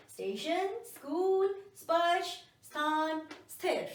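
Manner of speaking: clear, separate words for students to repeat; model pronunciation drill. Shown as a demonstration. Teacher reading the drill list for students, clearly. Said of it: "फिर से सुनिए एक बार और पीछे बोल कर देखिए".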